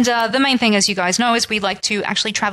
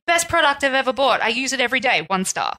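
mock reviewer; 3 semitones higher than usual. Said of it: "these people that's like".

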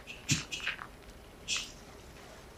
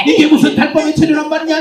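laughing into sobs; 2 semitones higher than usual. Acted. Laughing lament.

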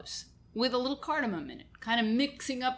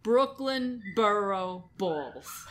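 put-on Brooklyn accent; much slower than usual. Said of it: "that's so much fun to say".

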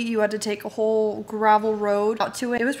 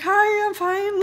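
awkward laughing reply; 10 semitones higher, slower than usual. Retold or imitated. Her own awkward reply quoted.

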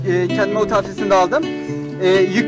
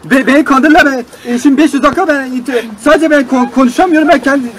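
angry complaint; 5 dB louder than usual. Acted. Customer shouts complaint at operator.

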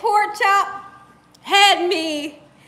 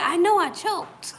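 retold through laughter; 2 semitones higher than usual. Quoting husband while laughing.

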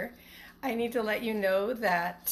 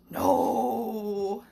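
louder, whiny crying no; a creature whines no; 4 dB louder than usual. Acted. Creature under the bed whines a loud, crying no.

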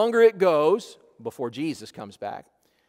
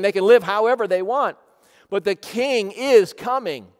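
raised, insistent pulpit voice; forceful preaching; 4 semitones higher, 6 dB louder than usual. Real, not acted. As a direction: press the warning home to the congregation.

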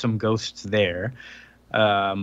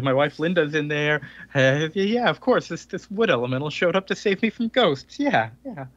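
losing his mind; 4 semitones higher than usual. Retold or imitated. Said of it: "He's starting to lose his mind".

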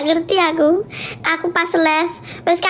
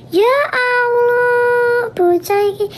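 a hint of an exasperated husband, higher and very slow at first; 4 semitones higher, slower than usual. Husband to his crying wife, lightly voiced fond exasperation. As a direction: drag out Ya Allah like a fond, fed-up husband. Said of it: "ibarate wong ki ngomong ngono".

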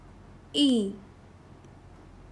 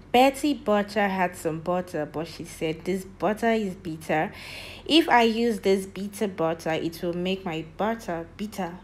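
faster tongue twister; faster than usual. Shown as a demonstration. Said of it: "Let me do it again".

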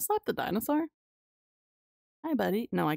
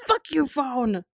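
mock shout; 3 semitones higher, slower than usual. Real, not acted. Streamer shouts at the phone while slapping it. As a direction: yell at the object as you slap it.

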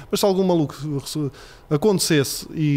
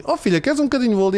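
coaxing dad; 7 semitones higher, faster than usual. Retold or imitated. Dad offering cake sweetly.

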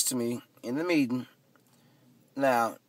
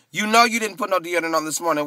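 louder, higher and faster, incredulous; incredulous callout; 6 semitones higher, 6 dB louder, faster than usual. Retold or imitated. To the stretching lady, a loud incredulous callout. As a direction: call her out in disbelief. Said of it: "'cause I was like".

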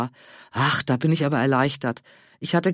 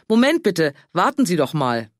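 louder call, pitched up on the first words; 4 dB louder than usual. Acted. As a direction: call after him before he goes. Calling after the farmer.

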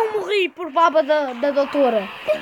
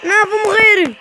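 panicked; 3 semitones higher, 3 dB louder than usual. Real, not acted. Player about to die.

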